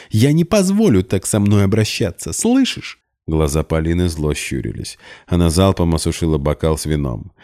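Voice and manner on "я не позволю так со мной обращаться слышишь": higher, rising to a shrill слышишь; threaten, voice climbing; indignant. A narrator's reading. Polina threatens Max. (возмущённо, срываясь вверх)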